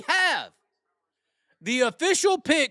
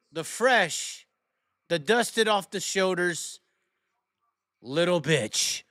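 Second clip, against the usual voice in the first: showman announcer; 3 semitones lower than usual. Acted. Host introducing the first picker, suspenseful announcer delivery. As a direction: build suspense before naming the first pick.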